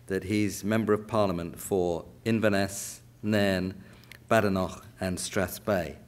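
Scottish place names in a West London accent. Shown as a demonstration. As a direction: read the constituency in a London accent. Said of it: "that was in a West London accent".

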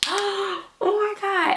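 high, slow breathless oh my God; gasping awe. Retold or imitated. Collector watches YouTubers unbox, gasping in high awe. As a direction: gasp it out in wonder.

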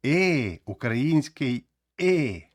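short Ukrainian И sound for "Е"; українське и. Shown as a demonstration. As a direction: slowly sound out "Е" as a lax short vowel. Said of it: "вона вимовляється як". («Е» як український звук «и»)

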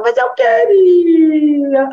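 drawn-out whimpering plea; whiny child. Retold or imitated. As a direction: sulk like a kid told no. Child whining after being refused.

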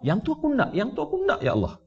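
high, soft yearning plea, twice. Acted. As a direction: plead softly like a soul longing for God. Longing for God's love. (rayuan lembut yang tinggi penuh rindu)

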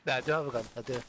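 heavy Scottish accent; broad Scottish delivery. Real, not acted. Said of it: "you can hear the Scottish very well".

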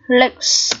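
"lakes" ending in ks; "lakes" said alone, final S voiceless; pronunciation demo. Shown as a demonstration. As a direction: model "lakes" with silent E and hissed s. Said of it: "S đứng sau K sẽ phát âm là âm S".

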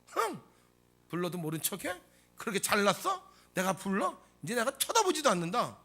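mock sulky grumbling after a scornful huff; huffy. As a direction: act mildly put out and offended. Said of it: "뒤틀어지지 않습니까". (살짝 삐친 듯 투덜대는 말투)

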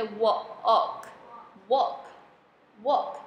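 "walk" built from separate sounds, slowly, with a long O; sounding out "walk". Shown as a demonstration. Teacher showing learners that AL says O, slow sounding out. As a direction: sound out, then blend "walk", slow and deliberate. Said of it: "发O".

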